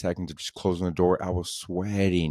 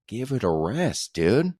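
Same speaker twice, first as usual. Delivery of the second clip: high, stretched-out exasperation; exasperated brush-off; 5 semitones higher, slower than usual. Retold or imitated. Customer telling a pushy salesman to quit, exasperated. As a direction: draw it out and let the pitch jump up, fed up.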